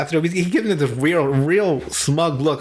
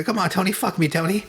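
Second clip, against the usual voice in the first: mock seductive; 3 semitones higher than usual. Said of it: "in a weird, seductive voice".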